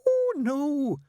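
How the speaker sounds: high, hurried nun's exclamation. A narrator's reading. Nun hastily correcting the father, high and hurried. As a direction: rush it out, high and flustered. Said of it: "said Sister Mary hurriedly".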